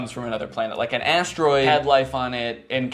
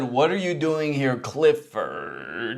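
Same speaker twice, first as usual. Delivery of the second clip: imitated alien; much slower than usual. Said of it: "So the alien said".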